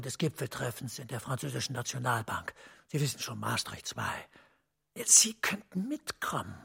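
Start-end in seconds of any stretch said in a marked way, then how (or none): 5.0-6.6 slow, hushed suggestion. Acted. Official making a quiet offer.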